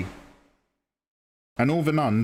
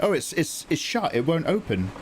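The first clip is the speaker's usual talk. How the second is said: hint of Italian nun; 4 semitones higher than usual. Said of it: "They're all Italian".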